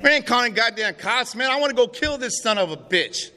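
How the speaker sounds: retold angry outburst. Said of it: "Raymond like".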